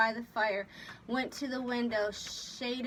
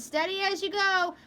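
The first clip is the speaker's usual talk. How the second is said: raised, high-pitched command; steadying order; 8 semitones higher, 5 dB louder than usual. A narrator's reading. Captain holding the helmsman on course, raised voice. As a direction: call it to the helm.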